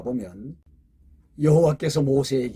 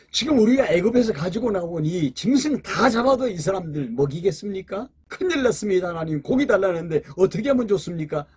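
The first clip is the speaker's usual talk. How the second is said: raised, anxious pleading to God; worried plea; 3 semitones higher than usual. Retold or imitated. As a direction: plead in alarm, voice pitched higher. Moses complains to God about meat.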